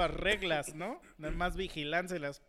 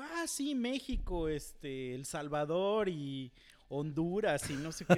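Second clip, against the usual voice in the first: dismissive Argentine; slower than usual. Retold or imitated. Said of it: "y me dijo".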